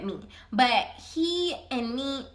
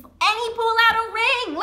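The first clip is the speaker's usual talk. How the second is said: high, loud burst of disbelief; incredulous exclamation; 9 semitones higher, 7 dB louder than usual. Real, not acted. Storyteller reliving the surprise proposal, incredulous exclamation.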